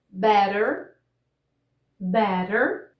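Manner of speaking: "better" with the double T as a quick tap; tapped T in "better"; flap T demo. Shown as a demonstration. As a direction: model "better" American style, rising, with a pause between takes. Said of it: "vamos ver alguns exemplos aqui".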